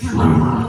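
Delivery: loud mimed plunging sound; plunger noise. Retold or imitated.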